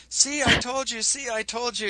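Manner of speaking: high-pitched, accusing I-told-you-so; mock gloating. Retelling a projector's reply to being challenged, mock gloating. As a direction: act out a smug accuser.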